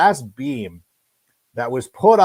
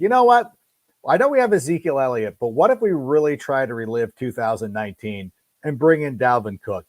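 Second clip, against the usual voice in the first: mock front office. Mocking Cowboys front office.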